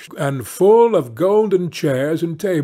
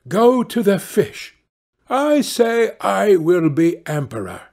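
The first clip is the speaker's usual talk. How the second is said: commanding wife; 6 semitones higher than usual. A narrator's reading. Wife voiced in the tale.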